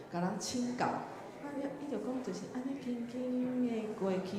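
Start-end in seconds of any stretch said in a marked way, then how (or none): 2.8-4.4 drawn-out illustration. Shown as a demonstration. Repeating the gliding illustration.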